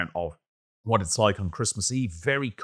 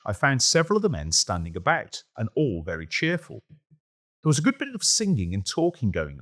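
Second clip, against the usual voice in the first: put-on measured storytelling read of an old account; reading a diary aloud. A narrator's reading. Host reads a soldier's Christmas Eve diary to listeners, in measured narration. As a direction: let the old soldier's words carry the scene.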